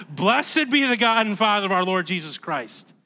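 exclaimed doxology, firm on Blessed; emphatic praise. Acted. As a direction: proclaim it with weight on Blessed. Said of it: "he says it with some emphasis".

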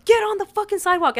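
loud, high-pitched cop imitation; insistent mock bark; retold yelling. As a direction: shout the order as mock police. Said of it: "they're still yelling".

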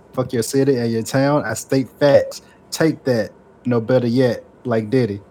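slow, deliberate mock recital of rap lyrics; sarcastic verse reading. Reading co-hosts a supposedly favorite verse, sarcastically. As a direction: read the bars out slowly, with irony. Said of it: "I say this sarcastically".

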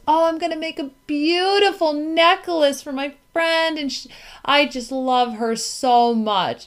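높게 띄운 아이 흉내, 들뜬 말투; a lightly voiced little boy gushing; son's sweet voice. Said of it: "And he goes".

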